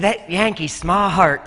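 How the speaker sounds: imitating a Southern drawl, "smart" in two syllables; Tennessee Southern accent. Tennessee locals remark on the Yankee kid, imitated Southern accent. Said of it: "Two syllables for smart".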